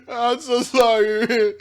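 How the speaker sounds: slow sorry still shaking with laughter; laughing apology. Real, not acted. To viewers after the crash clip, giggling apology. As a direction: try to apologise through giggles.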